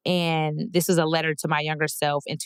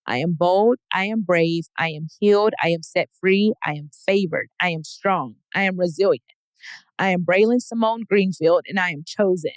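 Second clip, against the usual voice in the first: declared affirmations. Real, not acted.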